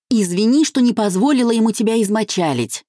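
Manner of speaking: narrated wife shouting in fury at her husband; furious shout. A narrator's reading. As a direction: hurl it at the husband in rage. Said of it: "крикнула она в ярости".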